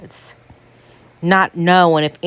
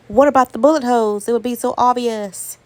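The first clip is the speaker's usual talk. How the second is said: higher and fast, suddenly panicked; alarmed realisation; 5 semitones higher, faster than usual. Retold or imitated. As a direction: blurt it out as the worry hits.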